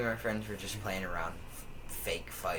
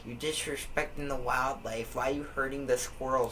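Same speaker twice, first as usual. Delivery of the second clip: higher, lightly mocked scolding; a hint of an indignant old woman; imitated old lady; 4 semitones higher than usual. Old lady scolding kids over wildlife, lightly imitated indignation. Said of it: "She was like".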